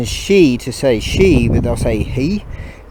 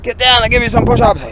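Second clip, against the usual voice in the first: drill sergeant; 8 semitones higher, 5 dB louder, faster than usual. Pretend. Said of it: "Yes, drill sergeant".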